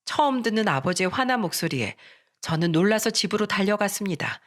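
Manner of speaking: plain reading voice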